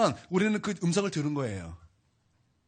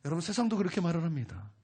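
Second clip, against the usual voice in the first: ordinary talk, nothing marked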